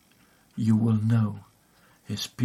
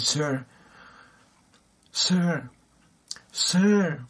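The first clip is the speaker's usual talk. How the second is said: shouting after him; 5 semitones higher, much slower than usual. Retold or imitated. Dimitri calling after the leaving guard, rising shout. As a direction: call him back before he leaves, building. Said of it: "he was shouting as the man".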